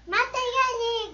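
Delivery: high, loud and slow gloat; excited gloating. Real, not acted. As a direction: crow about the kill. Gloating about a kill.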